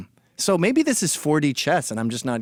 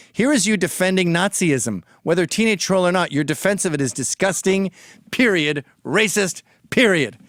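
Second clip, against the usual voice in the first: mock scolding. Imitating a critic's preachy scolding at him. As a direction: hammer each period like a scold.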